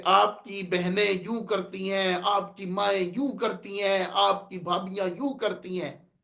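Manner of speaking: quietly pointed, repetitive reproach; pointed, taunting address. Shown as a demonstration. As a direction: lean on each "آپ کی" as if blaming the listener. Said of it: "یہ انداز درست نہیں ہے".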